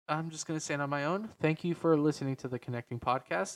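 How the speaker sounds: stuffy nose, deep voice. Real, not acted. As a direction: speak through a blocked nose. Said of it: "Sorry if my nose sounds a bit stuffy".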